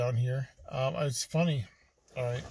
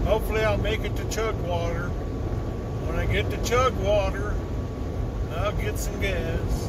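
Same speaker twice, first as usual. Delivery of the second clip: higher, louder, drawn-out silly voice; odd put-on voice; 6 semitones higher, 5 dB louder than usual. Vlogger saying goodbye to Denver to viewers, in a silly put-on voice. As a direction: slip into a strange new voice for the camera. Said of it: "I don't know why I'm talking like this".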